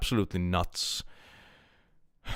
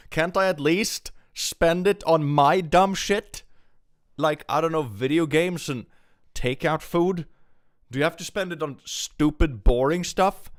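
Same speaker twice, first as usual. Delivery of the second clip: put-on high-pitched childish complaint; whiny mock pleading; 7 semitones higher, 4 dB louder than usual. Streamer begs government over wasted tax money, whiny complaint.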